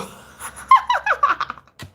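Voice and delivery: high, loud burst of laughter; sudden high shrieking laugh. Real, not acted. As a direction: squeal with laughter.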